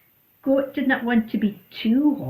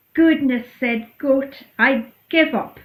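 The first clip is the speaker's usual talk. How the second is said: exasperated goodness; 5 semitones higher, 8 dB louder than usual. Acted. Goat overwhelmed by choices.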